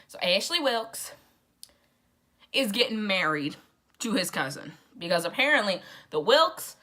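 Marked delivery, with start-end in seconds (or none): 0.1-1.1 slow, drawn-out Southern accent on the name. Shown as a demonstration. Resuming the gossip about Ashley, Southern accent. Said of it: "You gotta say it with that Southern accent".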